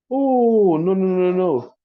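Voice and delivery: sudden high, loud cry of dismay; a real oh-no when something's gone wrong; alarmed no no. Real, not acted. Realizes screen not shared.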